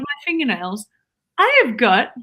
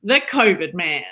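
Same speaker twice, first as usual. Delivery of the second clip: lower-pitched Australian accent; 6 semitones lower than usual. Shown as a demonstration. Wife demonstrates Australian accent on cue for husband. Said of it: "say the covid man like an Australian".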